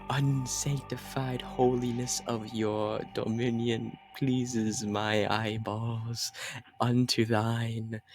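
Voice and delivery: slow, flowery, grovelling praise; pompous worshipper. Acted. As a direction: lay the flattery on thick. Player speaks flowery praise to god.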